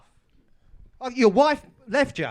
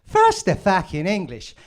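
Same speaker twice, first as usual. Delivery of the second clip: put-on Irish accent; 4 semitones lower than usual. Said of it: "That's a terrible Irish accent".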